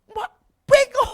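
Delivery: very high, loud, slow insult; furious insult. Retold or imitated. Boss calling the maid stupid, very loud and slow. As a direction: drag it out in outrage.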